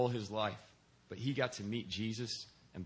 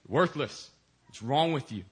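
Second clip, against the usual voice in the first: louder, sharp mock rant; boss yelling; 3 semitones higher, 6 dB louder than usual. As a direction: bark it like a boss tearing into him. Boss chewing him out.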